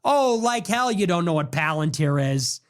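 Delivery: plain scornful comeback; scornful retort. Real, not acted. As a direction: own voice, scoffing disbelief. Scoffing back at the quote.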